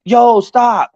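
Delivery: high mock shout; retold intervention. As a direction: call out to halt a fight.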